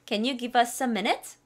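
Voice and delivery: slow, minute rising; slow model line. Shown as a demonstration. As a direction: say it slowly for students to repeat. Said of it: "따라하시고요". (따라 하도록 천천히)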